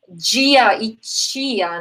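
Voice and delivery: "dia" and "tia" slow, palatalized like "djia" and "tchia"; palatal d and t. Shown as a demonstration. Teacher showing Brazilian Portuguese variants, palatal "dia" and "tia".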